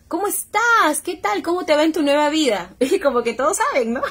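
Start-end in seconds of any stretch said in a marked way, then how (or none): 0.1-2.7 cheerful greeting. Retold or imitated. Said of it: "Entonces me dice".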